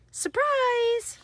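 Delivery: high, loud, held surprise call; spring it on the kids like a jack-in-the-box; big storybook surprise; playful surprise. Acted. Seed pod explodes.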